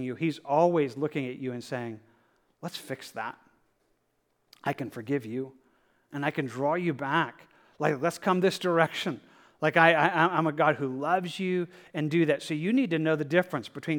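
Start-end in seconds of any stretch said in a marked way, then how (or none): 2.6-11.7 gentle God's voice. Acted. Preacher voices God's gentle words.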